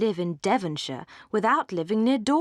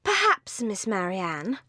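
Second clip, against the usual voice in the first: cried out; slower than usual. Acted. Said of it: "cried Lucy".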